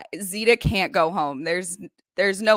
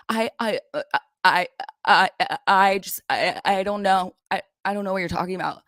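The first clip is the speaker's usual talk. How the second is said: stammering Andy. Retold or imitated. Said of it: "tripping over his words".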